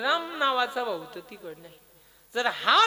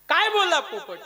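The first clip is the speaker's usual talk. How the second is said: high, loud prompt; calling out question; 6 semitones higher, 5 dB louder than usual. Acted. Preacher quizzes listeners about the parrot, calling out the question. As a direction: throw the question at the crowd.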